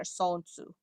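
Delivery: "Sonsu" without any L; L dropped. Shown as a demonstration. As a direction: go straight from the vowel to N in "Sonsu". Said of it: "you shouldn't have the L in there".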